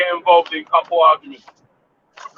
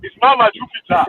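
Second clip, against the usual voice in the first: put-on African accent; 4 semitones higher than usual. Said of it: "let me do my African accent".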